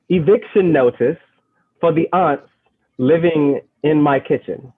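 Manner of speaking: put-on amateur British accent, pitched a bit high. Poet scolds the ants in her kitchen, in a shaky attempt at a British accent. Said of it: "I have to do this in a British accent".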